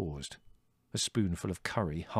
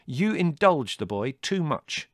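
high, loud, slow accusation; exasperated reproach; 9 semitones higher, 7 dB louder, slower than usual. A narrator's reading. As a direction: hammer out the complaint. Larry scolds Mother.

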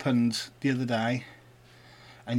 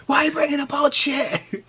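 high mocking voice; 12 semitones higher, 4 dB louder than usual.

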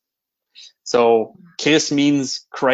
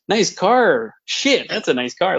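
higher-pitched impressed exclamation; excited admiration; 6 semitones higher, slower than usual. Shown as a demonstration. Translating a swear as praise for someone's new car, excited. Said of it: "an excitement is like".

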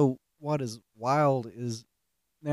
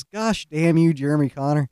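higher, louder exasperated cry; mock furious outburst; 3 semitones higher, 6 dB louder than usual. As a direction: fling it out like a coworker at her wits' end. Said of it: "she goes".

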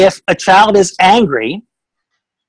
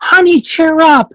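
sugary parent; 2 semitones higher than usual. Retold or imitated. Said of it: "parent consoling a sad child".

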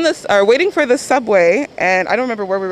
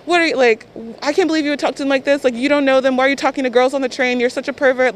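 mock berating; 4 semitones higher, faster than usual. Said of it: "she starts berating him".

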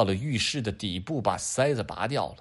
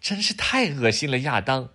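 mom disgusted; 3 semitones higher than usual. Acted. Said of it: "妈妈喊道".

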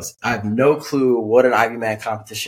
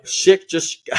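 hyped-up slogan; 10 semitones higher, slower than usual. Pretend. Hyping the razor slogan line.

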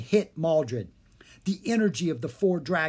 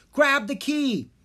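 slow, high, loud urgent call; loud, drawn-out urgent call; 11 semitones higher, 5 dB louder, slower than usual. A narrator's reading. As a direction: shout the order up the wall. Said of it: "he called up".

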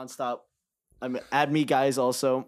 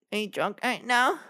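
put-on drunk voice; 8 semitones higher than usual. Acting drunk after call.

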